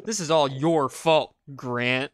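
teasing blame. Real, not acted. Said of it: "Stop saying my name like so".

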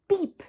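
car horn beep. Shown as a demonstration. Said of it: "What sound does a car horn make?".

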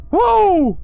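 loud high cheering whoop. Real, not acted. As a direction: whoop in joy.

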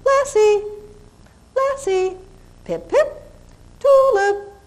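very high, rolling name calls; high singsong dog calling, tonal not noisy. Shown as a demonstration. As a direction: call each dog with rolling lilt, high. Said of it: "very high voice, not low".

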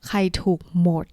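unvoiced playful whisper. Real, not acted. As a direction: whisper it to the class. Teacher whispers a question. (กระซิบเบาๆ)

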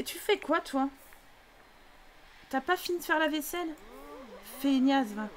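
lightly voiced bossy sister; nagging sister. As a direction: pester her about the dishes. Voicing the sister Sim nagging.

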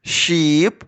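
"sheep" drawn out slowly; long slow "sheep". Shown as a demonstration. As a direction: stretch the word for the kids. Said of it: "Повільно".

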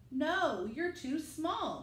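slow, firm grown-up voice; lightly voiced firemen saying no; firemen refusing.

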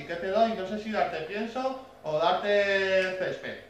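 mock an owner with no idea what to feed; clueless pet owner. Mocking a new dog owner asking about food, clueless.

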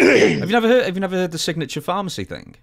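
high, loud surprised question; can't believe he missed the news; surprised disbelief. Real, not acted. To his cohost, who never heard the scandal, surprised.

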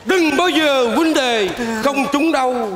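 mock oracle. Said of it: "nó khoan rồi, thấy ghê lắm".

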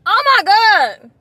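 talking while sucking candy; puckered sour face speech; candy in mouth. Real, not acted. Seen 4: both eat candy from can; speaker puckers, grimaces while talking.

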